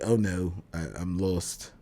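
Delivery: put-on light English accent, lost and bewildered; a hint of an English accent, mildly confused; Steven's English accent. Voicing a lost Steven with a slight English accent. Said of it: "There I go doing the accent again".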